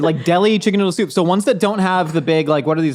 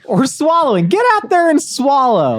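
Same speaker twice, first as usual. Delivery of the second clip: rallying call; 6 semitones higher, 6 dB louder than usual. Acted. Mock motivational rallying cry.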